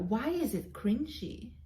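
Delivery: whispered, breathy question. Real, not acted. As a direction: hush it like a secret. Defending self-talk against followers.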